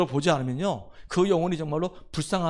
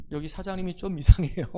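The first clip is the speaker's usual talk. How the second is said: laughing retold complaint. Laughs telling the deacon's complaint.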